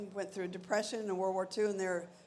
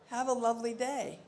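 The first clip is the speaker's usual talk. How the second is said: put-on Australian accent; 4 semitones higher, 4 dB louder than usual. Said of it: "Very Australian".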